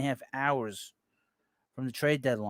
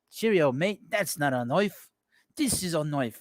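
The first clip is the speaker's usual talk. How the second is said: mock Australian accent with swinging pitch; hammed-up Aussie impression, vowels broadened; 3 dB louder than usual. Host playing along with a listener's joke, mock Australian accent. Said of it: "you sound like an Australian".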